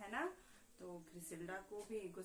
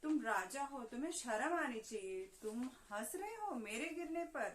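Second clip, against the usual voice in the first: mock angry shout; 3 semitones higher, 4 dB louder than usual. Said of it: "चिल्लाने लगी जोर जोर से".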